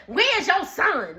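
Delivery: mock her barging in without manners; rude demand. Storyteller mimicking Brooke walking in unannounced, demanding. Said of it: "no greeting or nothing".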